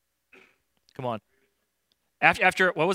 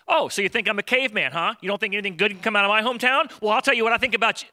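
mock defensive retort; 5 semitones higher, 3 dB louder, faster than usual. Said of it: "everybody else would have reacted with".

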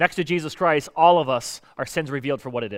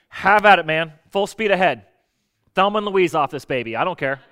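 loud exasperated send-off; 4 dB louder than usual. Retold or imitated. Giving up on stubborn friend.

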